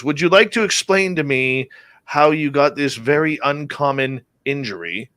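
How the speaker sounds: put-on a light British-accented bedside query. Family doctor questioning patient's injury, mock British accent. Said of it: "in his British accent".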